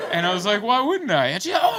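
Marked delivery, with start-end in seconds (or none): 0.6-1.3 a pitched-up hammed retort; mock outrage in a family spat; mock indignant shout. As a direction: fire it back, half shouting. Voicing his own retort in the fight.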